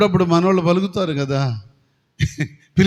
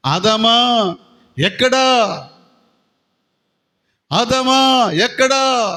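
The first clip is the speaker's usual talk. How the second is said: calling God; 2 semitones higher, much slower than usual. Acted. God calling Adam in sermon.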